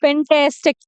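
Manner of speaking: "फैंटास्टिक" as fen-TAS-tik; correct pronunciation. Shown as a demonstration. Teacher repeating the model word, "फैंटास्टिक" said fen-tas-tik. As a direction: say "फैंटास्टिक" with short "tas" as in cat. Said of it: "फ का sound आ रहा है".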